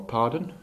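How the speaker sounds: "pardon" lifted into a question; questioning tag. Retold or imitated. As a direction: let "pardon" rise as if soliciting a response. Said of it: "soliciting something at the end".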